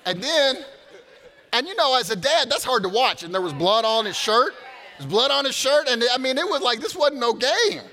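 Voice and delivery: loud, high, ringing preacher's voice; full-force preaching. Acted. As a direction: preach it out to the whole room. Preaching the boxing story at full force.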